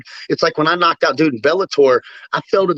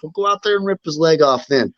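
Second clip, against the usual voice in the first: a pumped-up retelling of his wife's push; hyped-up wife; 5 semitones higher than usual. Retold or imitated. Wife in his corner fires him up, hyped. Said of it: "she didn't say it like that".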